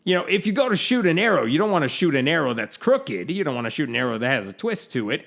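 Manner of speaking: put-on quoting a pastor in an Oklahoma accent. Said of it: "this is my Oklahoma accent".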